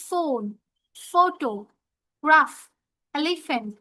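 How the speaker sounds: "ফোন, ফটো, গ্রাফ, এলিফ্যান্ট" with PH as "ফ"; teacher modelling the "ফ" sound; PH sound demo. Shown as a demonstration. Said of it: "পিএইচ টার উচ্চারণ হবে ফা".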